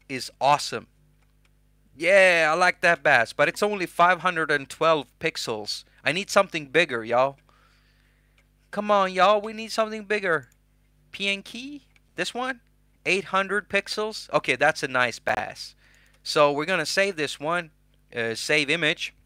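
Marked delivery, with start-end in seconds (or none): 6.0-14.3 put-on American South accent. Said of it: "Goes American South".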